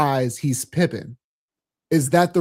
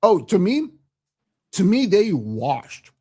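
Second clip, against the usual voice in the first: talking around ice in the mouth; 4 semitones higher than usual. Real, not acted. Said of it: "I have ice in my mouth".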